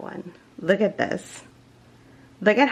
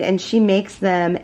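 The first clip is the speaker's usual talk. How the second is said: ordinary delivery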